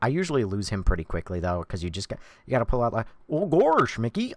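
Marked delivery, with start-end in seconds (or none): 3.3-4.3 loud, pitched-up, high blurted exclamation. Asked to do Goofy, trying the voice. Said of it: "But Goofy, Goofy's pretty easy".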